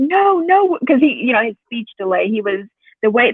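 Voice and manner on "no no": put-on high toddler protest; lightly voiced child refusing; high little "no, no". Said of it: "He was like".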